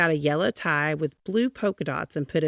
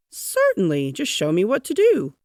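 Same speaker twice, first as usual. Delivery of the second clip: eager; 3 semitones higher, 6 dB louder than usual. A narrator's reading. Eager offer to help.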